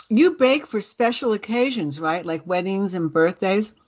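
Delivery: talking through a mouthful of cookie; mouth full. Real, not acted. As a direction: speak around a bite of food. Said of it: "I'm gonna talk with my mouth full".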